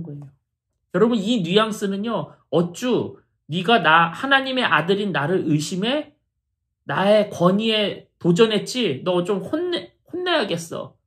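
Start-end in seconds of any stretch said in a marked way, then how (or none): 2.5-11.0 mildly indignant scolding, as if challenged; mock scolding. Preacher imitating a Jesus who scolds Peter for doubting, mild mock scolding. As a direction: act out a touch of offended authority. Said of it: "이렇게 혼내는 게 아니라요".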